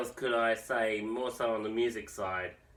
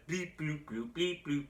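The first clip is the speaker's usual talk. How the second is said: robot beeps; 4 semitones higher, 5 dB quieter than usual. Retold or imitated. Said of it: "sounds like some robot made the music".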